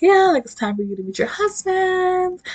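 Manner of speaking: high-pitched, put-on matchmaker voice; mock announcing voice. Acted quote of escort announcing husband.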